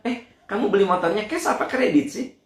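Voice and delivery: nosy gossip. Retold or imitated. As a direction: ask it with a nosy edge. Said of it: "Ini mah". (suara kepo yang lebih tinggi)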